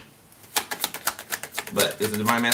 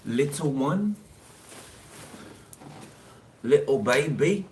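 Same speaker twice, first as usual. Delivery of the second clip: mock baby talk; 5 semitones higher, 3 dB louder, slower than usual. Continues taunting the sender.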